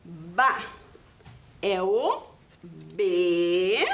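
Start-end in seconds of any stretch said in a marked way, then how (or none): 0.0-0.6 Ba said alone as one syllable. Shown as a demonstration. Teacher showing children how to say Ba. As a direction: give just the syllable Ba on its own. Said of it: "como que eu faço ba?".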